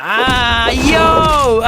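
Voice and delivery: high retold yell of surprise; startled shout. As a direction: shout it like the bug just hit you.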